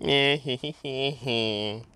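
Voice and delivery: high little hee hee laugh; giggling. Real, not acted. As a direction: giggle gleefully. Player giggles after chase.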